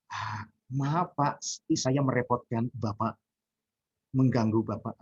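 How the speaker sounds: very slow, deferential apology; humble yourself before the boss; overly apologetic. Shown as a demonstration. Teacher acts a student apologizing to a superior, very slow and deferential.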